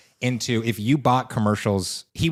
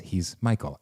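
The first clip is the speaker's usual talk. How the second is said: Michael's voice; 4 dB quieter, slower than usual. Shown as a demonstration. Showing how the ad character Michael talks, slow deadpan. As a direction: drop into a dull monotone, slowly. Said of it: "who talks like this".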